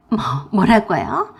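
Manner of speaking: slow, stuttered "뭐, 뭐라고요" with long rise; stammering shock. Acted. Sister-in-law sputters "뭐라고요" in stunned disbelief.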